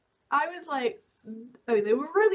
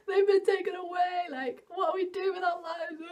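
mock wail; 6 semitones higher than usual. Bawling in the street, retold.

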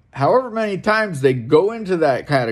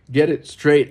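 the same demand again, much louder and higher; louder scolding; 4 semitones higher, 6 dB louder than usual. Real, not acted. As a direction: push it harder this time, losing patience.

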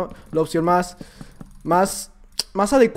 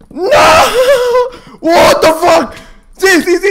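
shocked shout; 10 semitones higher, 7 dB louder, much slower than usual. Real, not acted. Shocked moment in the game.

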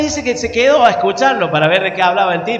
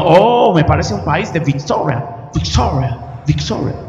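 gringo preacher voice; 2 semitones lower than usual. Retold or imitated. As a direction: let victoria echo away. Gringo's catchphrase. (gringo que repite victoria, cada vez más bajo)

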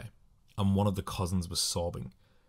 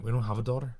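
retold spooky whisper; 3 semitones higher, much faster than usual. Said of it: "And they went".

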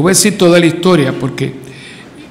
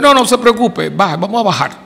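higher-pitched quoted shopkeeper, easing down; imitated reassurance; 5 semitones higher than usual. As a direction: reassure a worried customer, retold lightly. Shopkeeper reassures him in retold dialogue. (tono tranquilizador imitado)

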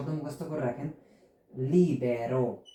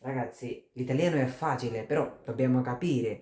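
slow emphatic teaching; 3 semitones lower, much slower than usual. Shown as a demonstration. Teacher stresses key point slowly.

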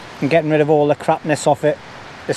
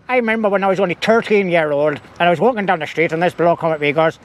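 joking tale in a put-on Irish accent. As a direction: tell it as a mock Irish anecdote. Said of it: "enough of the Irish accent".

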